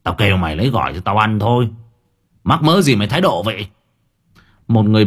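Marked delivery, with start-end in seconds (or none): 0.0-3.7 raised voice. Acted. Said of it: "ông lớn tiếng".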